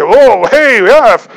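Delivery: a hammed-up dim listener cheering a bad idea; knucklehead. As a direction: play a careless guy who thinks he found a loophole. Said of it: "Some knucklehead's gonna say".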